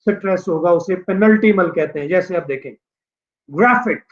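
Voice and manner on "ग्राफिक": "ग्राफिक" with ग्रा strong, फिक falling; stress before -ic. Shown as a demonstration. Teacher showing words ending in IC, first syllable stressed. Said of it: "एक से पहले वाला जो है ग्रैप".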